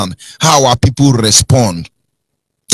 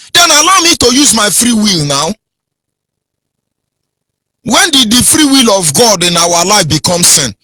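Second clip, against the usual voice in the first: impassioned, higher-pitched demand; angry; 4 semitones higher than usual. Retold or imitated. Preacher challenging fellow passengers over free will, angry. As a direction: press the argument with rising indignation. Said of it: "you are saying it angrily".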